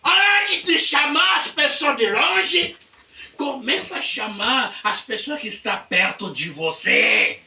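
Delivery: high, loud preacher's proclamation; preaching at full force. Acted. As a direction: thunder the point to the church. (pregação inflamada, alta e aguda)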